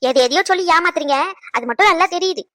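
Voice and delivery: in-law scolding her co-in-law loudly; angry accusation. Acted. Mother-in-law quarrels, accuses in-law.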